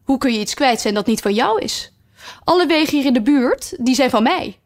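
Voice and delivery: high, loud royal claim; haughty queen. Acted. Red queen tells Alice all roads are hers, high and haughty. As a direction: declare ownership like a queen.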